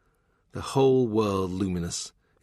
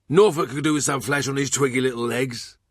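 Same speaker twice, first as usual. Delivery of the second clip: gossipy cook, higher and gleeful; Thurston the cook; 4 semitones higher than usual. Acted. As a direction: relish the bishop's discomfort, pitched up. Cook mocking Norfolk.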